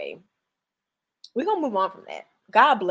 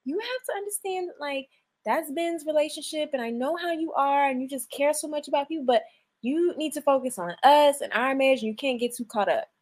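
mock baby voice; 3 dB quieter than usual. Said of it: "I know that little baby voice".

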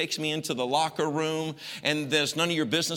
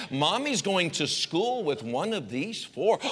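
sly mom; 3 semitones higher, slower than usual. Retold or imitated. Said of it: "how expressive my mother is to me".

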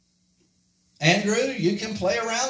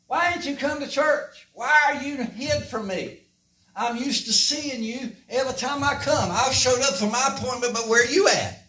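calling out; 5 semitones higher than usual. Acted. God calling for hiding Adam.

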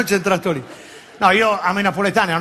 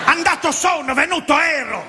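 high, hammed-up Sardinian inverted phrasing; mock Sardinian; 8 semitones higher, slower than usual. Comedian imitates how Sardinians talk, high mock Sardinian. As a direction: mimic the Sardinian word order with a grin. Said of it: "Cos'è che dite?".

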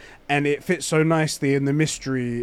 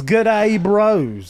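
higher Australian-style greeting; attempted Australian accent; 5 semitones higher, 3 dB louder than usual. Reading a listener's message, attempted Australian accent. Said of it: "That's not Australian".

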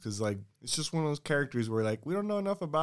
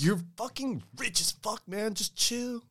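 high-pitched, slightly softer protest; mock exasperated plea; 7 semitones higher, 4 dB quieter, slower than usual. Comedian telling rich Putin to relax, mock exasperated. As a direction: plead upward in pitch, drawing it out.

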